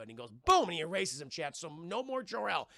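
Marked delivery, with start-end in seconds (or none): 0.4-0.6 sudden higher, louder "boom"; spoken boom effect. Acted. Streamer acting out an erasing blast, loud boom. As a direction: punch out the explosion word.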